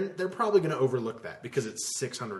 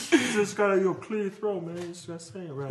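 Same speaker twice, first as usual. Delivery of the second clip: higher, fading lecture voice; opera friend; 5 semitones higher than usual. Retold or imitated. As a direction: advise on singing in the friend's voice. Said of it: "He's like".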